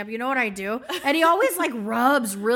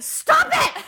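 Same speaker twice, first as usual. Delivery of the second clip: high, loud laughing snap; laughing stop it; 5 dB louder than usual. Retold or imitated. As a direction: push him off with a laugh. Throws husband's hand away.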